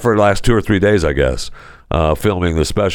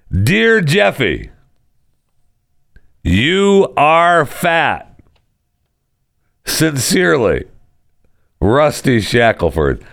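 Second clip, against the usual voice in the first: mock fan letter; 6 semitones higher, slower than usual. Reading a mock fan letter aloud.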